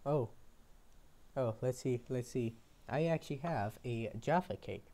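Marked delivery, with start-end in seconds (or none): none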